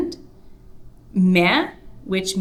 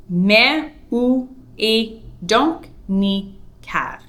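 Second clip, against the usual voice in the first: rising as if asking where is Ornicar; like a question; 3 semitones higher, slower than usual. Shown as a demonstration. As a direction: say the mnemonic with a questioning lilt. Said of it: "it sounds like you're asking a question".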